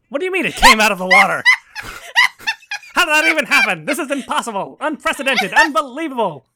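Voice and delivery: put-on high, dramatic old newsreel announcer; old-timey voice. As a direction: ham it up like a 1930s radio reporter. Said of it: "now you have to do the old-timey voice".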